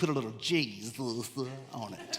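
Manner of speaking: very low, deep south Georgia lady voice. Imitating a lady from south georgia the speaker told them about: imitating a lady from south georgia. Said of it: "Let me say it like her today".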